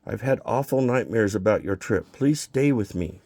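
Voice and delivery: a touch of tears, slowing on the plea; wife pleading through tears not to go; tearful plea. Acted. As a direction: beg him to stay, half crying. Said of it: "And she's still crying".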